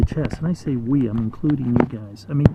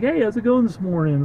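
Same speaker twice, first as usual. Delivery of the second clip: a higher, chirpy little critter greeting; cheery groundhog; 6 semitones higher than usual. Acted. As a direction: play a friendly groundhog calling to a neighbour. Groundhogs chatting between holes.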